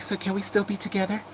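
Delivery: high, soft imitation of a pleading partner; mock a hopeful plea in a high little voice; retold plea. Streamer imitates someone asking to stay together, high soft plea.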